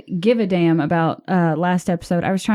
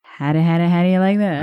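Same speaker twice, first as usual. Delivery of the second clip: Southern female voice; 3 dB louder than usual. Retold or imitated. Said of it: "strong Southern female voice".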